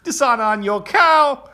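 high, loud dragon proclaiming dishonor; dramatic, shouted dragon curse; Mushu impression. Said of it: "my favorite reference from that movie".

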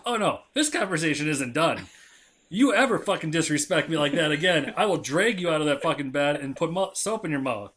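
mildly heated dad lecture; retold angry scolding. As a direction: re-enact laying down the law to a kid. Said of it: "I was pissed".

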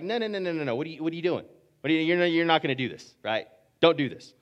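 rapid-fire, stammered objection; flustered protest. Acted. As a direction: play someone hastily stopping a mentor. Imagined protest to a mentor.

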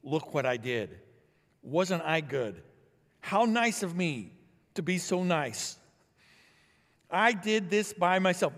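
mock smug bragging, slow and drawn out; smug self-praise. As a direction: play a self-satisfied boaster, half-hammed. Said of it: "they don't say".

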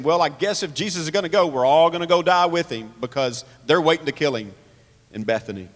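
sarcastic grumbling paraphrase of a doubter. Acted. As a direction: lay on mild sarcasm, quick at first. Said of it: "He's sarcastically saying".

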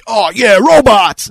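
put-on high, loud childish glee; excited kid. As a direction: gush like a little kid about robots. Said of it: "little me was like".

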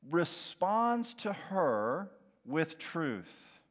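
usual speaking voice

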